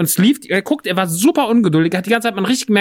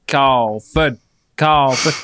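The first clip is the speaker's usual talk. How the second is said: mock salesman murmur; 4 semitones lower, much slower than usual. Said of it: "dann sagen wir".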